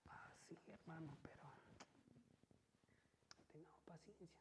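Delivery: whispered imitation of a patient pastor; very soft, halting pastor's reply; Pastor Noel. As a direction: hush it, urging patience. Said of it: "le comentaba de ahí".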